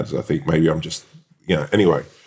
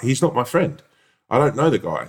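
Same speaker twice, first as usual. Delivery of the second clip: higher-pitched, mildly indignant denial; retold protest; 5 semitones higher than usual. Customer denying the stranger is his friend, protesting. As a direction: deny it as if wrongly accused.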